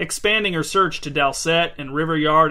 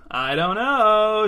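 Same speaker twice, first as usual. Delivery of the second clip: drawn-out, higher, playful lilt; sing-song; 5 semitones higher, much slower than usual. A narrator's reading. Kirsten feigning ignorance about the present, sing-song. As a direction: stretch it out in a teasing sing-song. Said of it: "she said in a sing-song voice".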